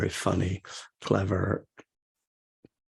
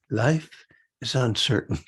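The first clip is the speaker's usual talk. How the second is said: lightly mimicked soothing voice-over, with a pause; 3 semitones higher than usual. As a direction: echo the nice woman announcer, gently spaced. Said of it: "this very nice, soothing woman's voice".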